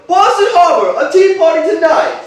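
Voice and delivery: half-shouted rally slogan; retold shout. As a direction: call it out like a crowd's slogan. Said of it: "Then someone shouted".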